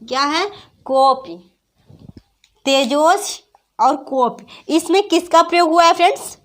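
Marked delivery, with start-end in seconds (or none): 0.8-1.4 कॉपी with its first vowel stretched; long-vowel demonstration. Shown as a demonstration. Teacher repeating the example, कॉपी with a prolonged first vowel. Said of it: "दोनों में दीर्घ उच्चारण का प्रयोग". 2.7-4.7 slow, with long जो in तेजोस and long ऑ in कॉपी; long-vowel demonstration. Shown as a demonstration. Teacher reviewing both examples, तेजोस and कॉपी slowly with prolonged vowels. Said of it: "दोनों में दीर्घ उच्चारण का प्रयोग".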